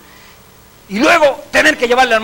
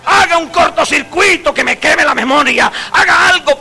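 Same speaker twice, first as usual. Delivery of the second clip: desperate plea; 5 semitones higher than usual. Pretend. Desperate people begging erase memory.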